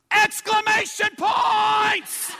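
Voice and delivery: high, loud, slow excited yell; a boy yelling the exclamation on cue. Retold or imitated. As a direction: shout it with huge excitement. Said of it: "say it with excitement or yell".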